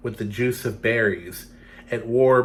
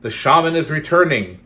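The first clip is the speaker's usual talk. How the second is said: runner calling; 4 semitones higher, 7 dB louder than usual. Acted. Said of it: "the runner called".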